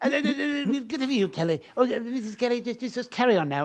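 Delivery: stammering put-on voice, halting, repeating words. Retelling a professor's words at the zoo: a rock singer's voice. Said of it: "he used to speak like this".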